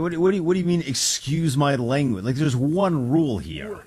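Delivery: high, loud, incredulous; exasperated disbelief. Real, not acted. Co-host scolding a caller who swore, incredulous.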